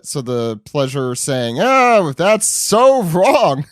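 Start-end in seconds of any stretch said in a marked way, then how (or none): 1.6-3.7 high, slow, laughing mock outrage. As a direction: wail it out through laughter. Pleasure reacting to speech.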